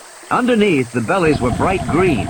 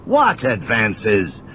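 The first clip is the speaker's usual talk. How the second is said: irritably; much slower than usual. Acted. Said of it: "Malcolm said irritably".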